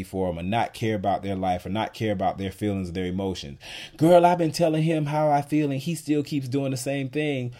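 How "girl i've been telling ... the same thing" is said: complaining woman. Retold or imitated.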